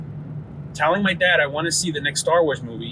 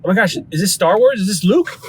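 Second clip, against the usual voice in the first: quick and a bit higher, imitating childish excitement; excited kid recognizing Mark Hamill, quick and higher; 5 semitones higher, 4 dB louder than usual. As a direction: blurt it out like a kid spotting his hero. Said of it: "I would immediately get excited and be like".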